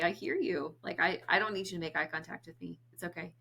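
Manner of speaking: reassuring reply. Retold or imitated. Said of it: "And I'll just say".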